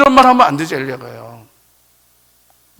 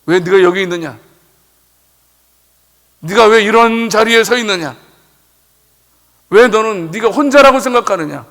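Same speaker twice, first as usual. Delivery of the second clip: God rebuking; 3 dB louder than usual. Acted. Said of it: "책망하시는 겁니다".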